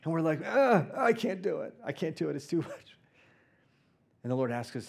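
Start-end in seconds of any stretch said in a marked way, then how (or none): 0.4-3.0 mock helpless whine. Church voiced as helpless.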